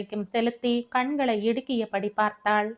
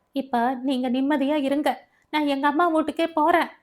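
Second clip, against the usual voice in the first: higher and louder, bitter; angry parting shot; 4 semitones higher, 3 dB louder than usual. Acted. Wife storms out telling husband she's leaving, angry and louder. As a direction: fling the words as you leave.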